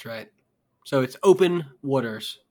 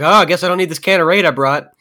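imitating Lawler; 5 semitones higher, 8 dB louder, faster than usual. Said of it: "He's like".

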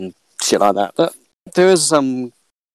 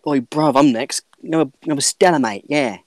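lightly voiced pushy punter at the bar; rude customer; 3 semitones higher, slower than usual. Customer voiced, rude pub order.

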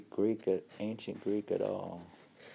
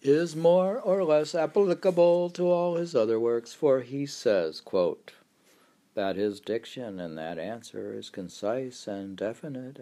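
reading aloud; 3 semitones higher, 4 dB louder than usual. Acted. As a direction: read an old text aloud, some words held long.

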